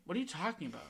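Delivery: high, mocking cousin voice; cousin bashing. Imitating Elizabeth bashing him, high and mocking. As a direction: tease him like a mean cousin. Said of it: "She's like".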